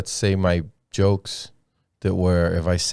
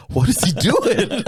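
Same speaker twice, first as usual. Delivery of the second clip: high, slow delighted disbelief; mock incredulous; 11 semitones higher than usual. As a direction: act out baffled glee, stretched out. Retold reaction to absurd act.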